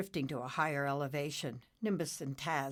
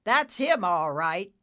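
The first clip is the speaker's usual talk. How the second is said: loud; 2 semitones higher, 9 dB louder than usual. Acted. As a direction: call it out loudly. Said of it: "Taz said loudly".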